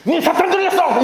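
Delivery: high-pitched movie villain accusation; hammed-up drug-lord pastor outburst; 황정민. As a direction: hurl the famous film line, pitched high. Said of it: "그 중에 가장 유명한 대사가 뭔지 아세요?".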